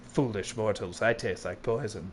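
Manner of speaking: a hint of a gloating villain; dark lord. Playing villain over game death.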